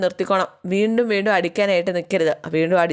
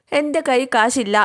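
എൻ്റെ കൈ കാശില്ല higher and slow, mock angry; imitating angry refusal; 6 semitones higher, slower than usual. Recapping Meenakshi snapping at Mitra, mock angry and slow. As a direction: act out the sister-in-law's irritated refusal. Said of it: "എന്നും പറഞ്ഞ് മീനാക്ഷി ദേഷ്യപ്പെടുകയാണ്".

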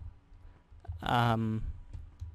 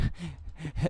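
dying goat bleat; 4 semitones higher, 7 dB quieter than usual. Acted. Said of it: "the sound of a dying goat".

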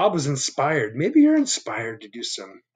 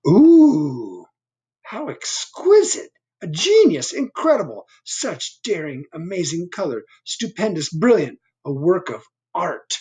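gushing Owl; 6 semitones higher, 4 dB louder than usual. Acted. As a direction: rave like a swooning connoisseur. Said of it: "said Owl".

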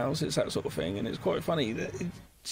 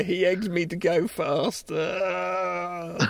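mock wailing excuse; much slower than usual. Mock excuse about wild driving.

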